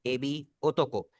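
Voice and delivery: एबी, ओटोको drawn out slowly; slow demonstration for the class; slow model read. Shown as a demonstration. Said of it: "आकाई".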